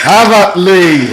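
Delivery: high, loud, drawn-out charge cry; slow, ringing war cry; yelled battle cry. Pretend. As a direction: yell it as you attack. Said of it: "I'm gonna be yelling myself hoarse".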